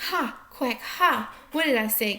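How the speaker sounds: gloating duck. Acted. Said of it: "cried the duck".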